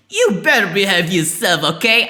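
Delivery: loud, high hammed-up redneck mom; badly faked mom that comes out redneck; redneck-sounding mom. Player trying how moms talk, loud redneck-like mom voice. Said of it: "That's more like a redneck sound".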